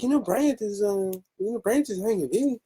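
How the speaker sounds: put-on high, playful heavy Mexican accent. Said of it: "I hit her with the heavy Mexican accent".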